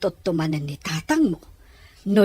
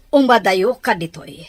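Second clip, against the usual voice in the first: louder urgent command to get away; urgent warning; 7 dB louder than usual. Acted. Mother urging her daughter to hide, loud and urgent.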